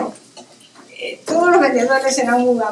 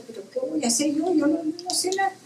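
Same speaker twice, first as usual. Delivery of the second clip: anxious inner voice; 5 semitones higher, 8 dB quieter, faster than usual. Retold or imitated. Retold anxious thought at night.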